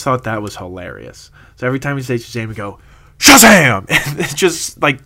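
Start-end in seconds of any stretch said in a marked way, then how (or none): 3.2-3.9 sudden high, loud shout of the word; whisper shout. Retold or imitated. Friends yelling along with the movie, a sudden high whisper shout. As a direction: blurt it out like a movie-theater cheer. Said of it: "whisper shout it".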